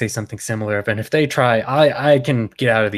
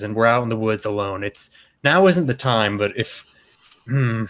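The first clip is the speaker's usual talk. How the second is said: usual speaking voice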